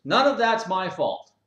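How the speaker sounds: high, loud, whiny denial; indignant member. Acted. Lazy gym member to gym owner, whiny high protest. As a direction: whine that nothing is your fault. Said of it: "And he goes".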